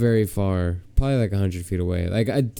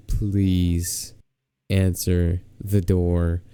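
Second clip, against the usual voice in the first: desperate plea; 4 semitones lower, much slower than usual. Retold or imitated. Acting out desperate plea at door.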